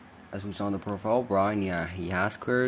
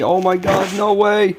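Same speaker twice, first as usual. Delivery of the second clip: high, excited shriek; shrieking jackpot winner; 9 semitones higher than usual. Real, not acted. Surprise at a competitor's entry.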